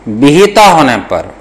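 slow, measured dictation to students. Shown as a demonstration. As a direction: spell out each word slowly for note-taking. (धीमे-धीमे श्रुतलेख लिखवाते हुए)

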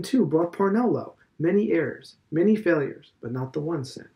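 a hint of a pompous old headmaster; lightly voiced Mr Deasy. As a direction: lecture it like a self-assured elder. Deasy holds forth.

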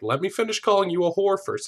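high-pitched, worked-up interruption; mock tirade. Host imitates the raging man interrupting Claire, mock tirade. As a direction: insist in exaggerated indignation. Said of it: "Flies off the handle".

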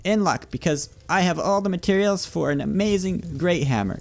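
high, eager salesman pitch; cheesy shopkeeper. Pretend. Shopkeeper selling a hammer to a customer, high and eager. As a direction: hype the customer up like a game merchant.

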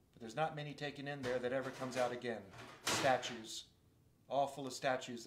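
a lightly voiced grim beaver; Mister Beaver.

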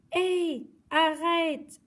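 high, loud stop cry; shouting. Acted. Guy yelling at the dog grabbing his remote, loud cry. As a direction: yell after the thief. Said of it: "a crié Guy".

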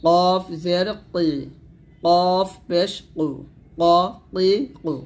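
thick, slow কফ, কি, কু from the tongue root; heavy qaf. Shown as a demonstration. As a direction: pop a full q at the back of the mouth on ক, কি, কু. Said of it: "মোটা করে একটা পাল্টা আওয়াজ".

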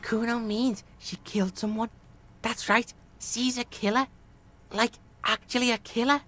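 put-on tough kid insisting, in short phrases; Kuno's street-kid voice. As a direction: press the claim like a street kid.

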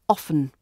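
often without a T, OFF-un; standard variant, silent T. Shown as a demonstration. Teacher naming the standard variant, often with silent T. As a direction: leave the T out of often. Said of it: "use of the T sound persisted".

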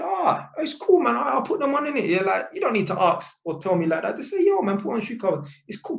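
high-pitched, animated reassurance; lively, no-worries insistence; easygoing reassurance. Retold or imitated. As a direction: wave off the apology brightly in a high pitch. Reassuring an over-apologetic landlord.

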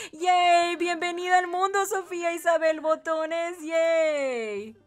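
sing-out welcome to a newborn; celebratory cheer. Real, not acted. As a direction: cheer it out happily, drawing out the yays.

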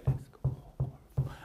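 whispered drill line. Shown as a demonstration. Teacher whispering the end of the drill, whisper. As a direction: drop to a bare whisper for this phrase.

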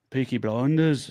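put-on tentative Peaky Blinders accent, slow; attempted Birmingham accent. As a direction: try out a Birmingham accent, drawn out. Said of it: "I could do an all right Tommy Shelby".

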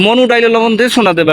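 light Barishali lilt on মনু; a touch of Barishal accent; lightly voiced Barishal teasing; Barishal dialect phrase. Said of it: "এটার মানেটা কি?".

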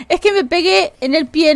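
risa real, aguda, entre palabras; reíte mientras explicás el golpe; riendo. Real, not acted. Se ríe tras golpearse. (riéndose porque se golpeó el pie)

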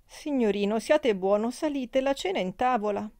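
pleading maid. Acted. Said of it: "supplicava Marianna".

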